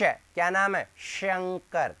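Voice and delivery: शंकर with a clear palatal sh; correct sh in Shankar. Shown as a demonstration. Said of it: "बिल्कुल ऐसा ही बताना चाहिए".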